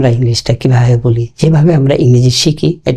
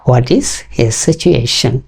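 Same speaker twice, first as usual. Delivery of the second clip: slow stiff version; much slower than usual. Shown as a demonstration. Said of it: "আমরা এইভাবে আসলে বলি না".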